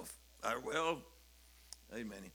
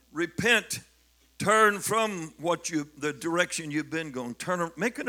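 preaching exhortation; 4 dB louder than usual. Acted. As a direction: command them to turn.

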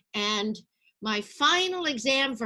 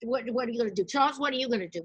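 raised, brisk teacher voice calling the class; a hint of a bossy drama teacher; teacher's call; 5 semitones higher, 4 dB louder, faster than usual. Drama teacher calling on students for finals, raised. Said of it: "She says".

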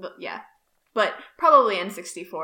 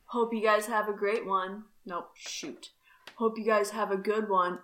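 John voice. Acted. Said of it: "Should I do a voice for this?".

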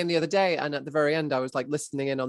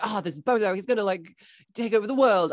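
mock dramatic hype; 6 semitones higher than usual. Hyping the villain dramatically.

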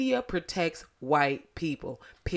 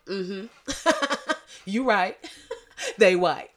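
laughing; 2 semitones higher than usual. Retold or imitated. Ancestors' voice, laughing.

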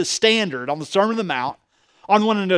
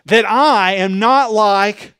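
slow, lofty and self-satisfied, a little louder; smug Pharisee; 2 semitones higher, 5 dB louder, much slower than usual. Retold or imitated. Preacher voicing the Pharisee's prayer, slow and smug. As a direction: drawl it out like a proud man praying to be seen. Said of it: "He goes".

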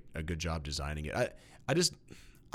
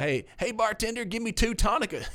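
much higher, louder barroom heckle; loud drunk heckling; 5 dB louder than usual. Pretend. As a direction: yell at the bartender like a drunk. Mock bar order, pun on name.

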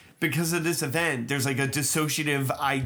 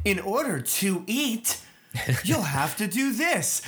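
friendlier robot voice; 3 semitones higher than usual. Shown as a demonstration. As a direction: give the tip a little personality. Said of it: "say it just in a slightly different way".

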